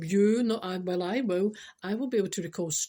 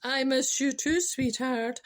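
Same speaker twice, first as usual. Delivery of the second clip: mock tender; 4 semitones higher, 3 dB louder, slower than usual. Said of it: "I know".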